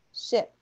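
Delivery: SHIP cut short, vowel near EH. Shown as a demonstration. Teacher repeating the short I for students, ship said short. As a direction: say ship with a brief lax I. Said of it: "um som de um izinho curto".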